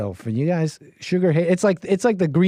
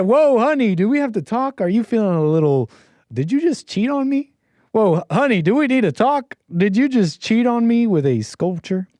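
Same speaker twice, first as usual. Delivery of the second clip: higher, hammed-up worried husband; mock husband; 6 semitones higher than usual. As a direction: play the husband suddenly jealous of a sculpture. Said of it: "I'm pretending to be, I'm imagining the, the husband".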